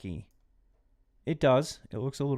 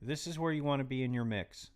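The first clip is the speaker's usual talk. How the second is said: a calm, softer restatement; quiet repeat; 6 dB quieter than usual. Real, not acted. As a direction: say it again under your breath. Repeats the key mix advice.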